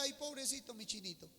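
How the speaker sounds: soft, cooing pity; lightly mocking tender pity. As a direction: coo over a poor little darling. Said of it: "Si Dios decía".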